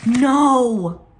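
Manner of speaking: loud, high cry of alarm; startled no. Real, not acted. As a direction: yelp out a sudden no. Realizes baking mistake.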